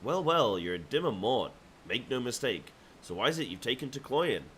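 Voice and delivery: sneering, theatrical villain. Acted. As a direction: play it smug and scheming. Reads villain NPC lines.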